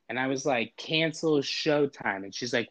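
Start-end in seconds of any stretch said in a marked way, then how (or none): 0.8-2.2 "Cancel Showtime" slow and firm; slow deliberate command. Retold or imitated. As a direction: repeat it patiently slowly. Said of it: "I just have to say two words".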